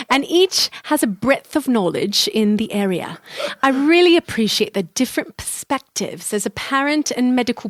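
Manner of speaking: reading a review aloud in a put-on English accent; light English accent review read. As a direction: read it like a proper Brit. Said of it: "I'm gonna read these in an English accent".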